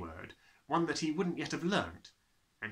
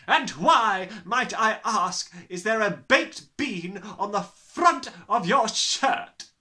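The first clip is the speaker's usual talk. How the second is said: slow bellowing; 9 semitones higher, 11 dB louder, slower than usual. Acted. Trunchbull interrogating.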